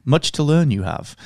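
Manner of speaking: lightly voiced wise Jedi mentor; a hint of a sage old Jedi; Obi-Wan voice. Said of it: "in a very Obi-Wan voice".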